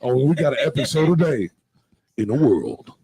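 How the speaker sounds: movie trailer voice. Acted. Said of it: "That was your movie voice?".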